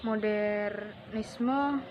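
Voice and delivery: modernisme drawn out very slowly; Dutch pronunciation. Shown as a demonstration. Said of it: "isme dalam bahasa Belanda". (modernisme dengan lafal Belanda, sangat pelan)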